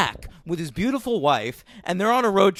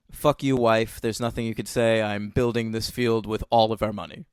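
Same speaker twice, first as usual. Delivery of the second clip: mock Kevin Costner; 10 semitones lower, 4 dB quieter than usual. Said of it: "Give me another Kevin Costner line".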